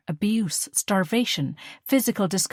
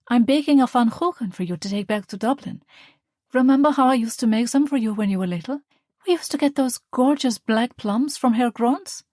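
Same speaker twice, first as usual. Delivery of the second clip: higher, louder, eager mother reminiscing; fond mother; 6 semitones higher, 5 dB louder than usual. Acted. Mother offering her daughter cake, eager and fond. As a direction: bustle about like a proud mum.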